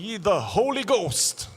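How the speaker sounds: slow, loud Trinidadian English; Trinidadian English accent. Retold or imitated. A Trinidadian pastor preaching, lightly imitated Trinidadian accent. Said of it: "ele falando assim".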